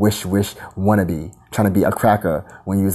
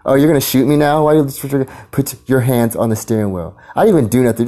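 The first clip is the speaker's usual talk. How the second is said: indignant; 4 semitones higher than usual. Retold or imitated. Talking back to the cop.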